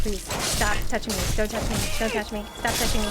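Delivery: low, worn-out muttered plea; weary pleading. Real, not acted. Gamer worn down by enemies, weary pleading. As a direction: repeat it under your breath, fed up.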